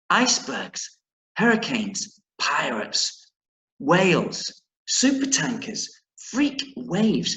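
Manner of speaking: each word stressed with a falling tune; slow, spaced warnings; dangers listed again. Shown as a demonstration. Teacher repeating Gran's list for the class, each word stressed. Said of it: "I wanna say that again".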